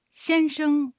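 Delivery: 先生 in Mandarin, xiānsheng with a level first tone on 先 and a short neutral 生; teacher models 先生 clearly for learners to repeat; Chinese drill word. Shown as a demonstration. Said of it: "では、練習してみましょう". (先生を中国語で、先は一声で平らに伸ばし、生は短い軽声で)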